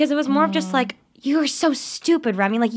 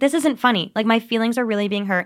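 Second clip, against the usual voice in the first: ordinary talk, nothing marked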